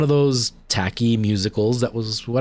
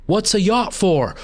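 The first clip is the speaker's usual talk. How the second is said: "what's a yacht for?" much higher and slow, a sudden squeaky interruption; heckle inside the line; 9 semitones higher, slower than usual. Retold or imitated. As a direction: pop the heckle in high and slow mid-sentence. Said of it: "So then the line turns into".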